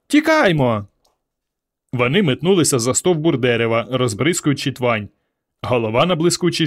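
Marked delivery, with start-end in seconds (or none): 0.1-0.9 higher urgent cry to flee; panicked call to run; frightened cry. A narrator's reading. Girl urges friends to flee the dragon, frightened cry. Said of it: "вириснула Варка".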